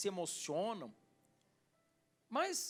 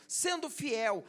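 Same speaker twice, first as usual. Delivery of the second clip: ordinary delivery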